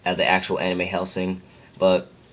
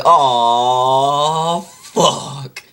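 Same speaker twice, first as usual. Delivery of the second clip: long loud high groan of a curse; mock dismayed wail; 5 semitones higher, 5 dB louder than usual. Legless man facing endless stairs, mock dismayed wail. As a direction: stretch it out in hammed-up despair.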